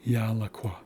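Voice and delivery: Yalakwa stressed on the first a; Haisla word demo. Shown as a demonstration. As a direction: say Yalakwa as YA-la-kwa. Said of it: "because it's yalakwa".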